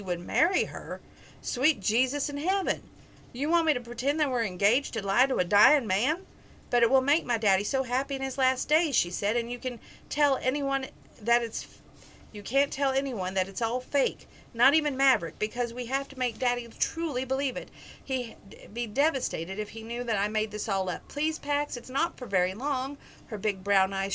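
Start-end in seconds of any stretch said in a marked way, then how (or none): 1.4-6.3 higher-pitched, mildly shocked disbelief; acted astonishment, pitch swooping up; incredulous. Shocked at fake engagement proposal. 6.7-9.0 higher-pitched acted plea; gently urgent begging; pleading. She begs him to play along. 9.4-23.0 insistent plea in a higher pitch; acted earnest begging; pleading. She begs him to keep the secret.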